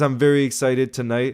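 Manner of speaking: ordinary talk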